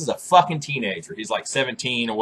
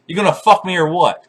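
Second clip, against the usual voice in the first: aggressive come-on; 5 semitones higher, 5 dB louder than usual. Retold or imitated. Quoting aggressive girl.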